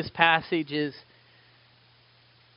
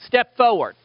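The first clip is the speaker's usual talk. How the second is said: higher, louder commanding call; God calling Peter; 7 semitones higher, 3 dB louder than usual. Retold or imitated. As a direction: grab Peter's attention firmly. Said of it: "God the Father reaches down and goes".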